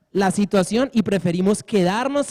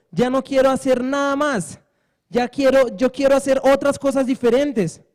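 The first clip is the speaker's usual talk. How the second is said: put-on fed-up teen ranting at his parents, a bit higher; mildly raised, exasperated complaint; angry outburst; 3 semitones higher than usual. Preacher voicing the son shouting at his parents, fed up.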